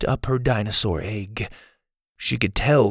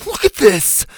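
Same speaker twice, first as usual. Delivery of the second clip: higher, mild yell near tears; tearful yell; 10 semitones higher, 4 dB louder than usual. A narrator's reading. Ash showing the hurt raptor, tearful yell. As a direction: yell it, almost crying. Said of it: "Ash yelled, practically in tears".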